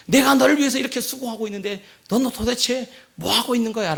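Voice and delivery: retold rant about my own effort; scolding father. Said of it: "결국 소리치면서". (아이를 나무라는 짜증 섞인 아빠)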